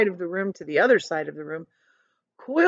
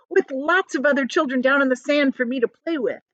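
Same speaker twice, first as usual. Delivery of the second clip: a touch higher, hopeful; eagerly; 6 semitones higher than usual. Acted. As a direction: keep dreaming of playmates. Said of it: "said James eagerly".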